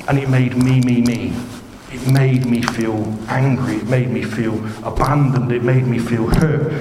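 mock indignant complainer. Preacher mocking a person demanding to express feelings, indignant. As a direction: play someone spluttering out their grievance.

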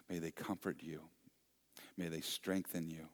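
hushed closing prayer; blessing prayer. Acted. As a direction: bless them gently as you close. Closing blessing over the congregation.

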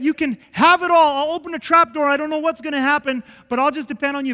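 loud, high fervent vow; fervent surrender. Retold or imitated. Pastor surrendering to God in a loud, fervent vow. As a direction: give everything up in one cry.

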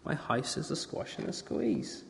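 soft slow whispered refrain; whispering. Acted. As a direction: breathe the line as a secret. Whispered repeat.

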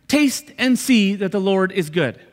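slowed right down, landing each word from "Taste" to "good"; slow, deliberate emphasis. Shown as a demonstration. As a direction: draw out "Taste and see" slowly. Slow emphatic repeat as the answer.

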